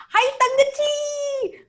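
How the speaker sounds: high, slow put-on Indian accent greeting; mock Indian accent. Mocking a man who greets her in accent, high slow mock Indian accent. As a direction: stretch it out like a patronizing uncle. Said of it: "where is this coming from".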